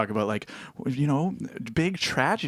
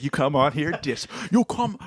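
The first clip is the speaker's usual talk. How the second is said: mad Scottish guy. Acted. Offended Scottish panelist scolding comic, mock-angry Scottish accent. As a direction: start a cross Scottish rant and falter. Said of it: "kinda mad".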